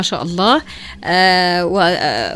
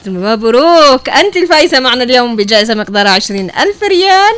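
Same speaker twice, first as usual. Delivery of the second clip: booming prize announcer. Real, not acted. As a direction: proclaim the winner with big excitement. Announcing the prize winner live. (إعلان الفائز بصوت مدوٍّ)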